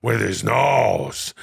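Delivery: a rough actor impression of another actor; halting, layered impression, feeling for the voice; Al Pacino doing De Niro. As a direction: play a star mimicking his friend. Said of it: "This is Al Pacino doing".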